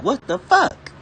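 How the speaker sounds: mock disbelief. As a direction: draw it out in mock shock. Ranting at ingredient labels.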